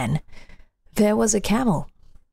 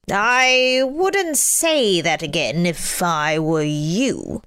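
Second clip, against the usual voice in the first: djinn voice; slower than usual. Acted. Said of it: "said the djinn".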